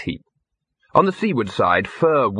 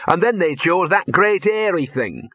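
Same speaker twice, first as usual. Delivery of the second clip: self-pitying; 4 semitones higher than usual. Acted. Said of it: "muttered in a self-pitying voice".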